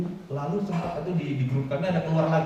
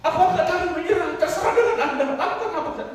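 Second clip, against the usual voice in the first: mock pleading; 12 semitones higher, 4 dB louder than usual. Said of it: "Dia enggak bilang begitu".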